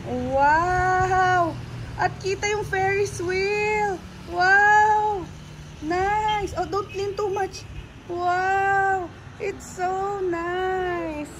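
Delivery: excited squeals. Real, not acted. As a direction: squeal at the view of the Ferris wheel. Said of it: "I'm so noisy!". (tumitiling sa tuwa, mataas na boses)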